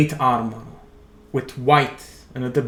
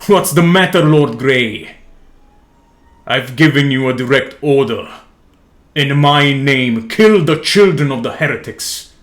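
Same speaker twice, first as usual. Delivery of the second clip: louder, commanding yell, slowing on "In my name"; yelling emperor; 5 dB louder than usual. Acted. Emperor yells at Lord Grey to kill the children, loud and commanding. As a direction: demand obedience, every word an order. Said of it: "the looming voice from behind yells at the warrior".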